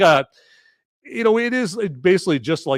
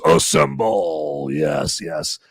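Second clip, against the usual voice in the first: rallying call; 5 semitones higher, 6 dB louder, much slower than usual. Pretend. Hammed-up rallying call to live chat.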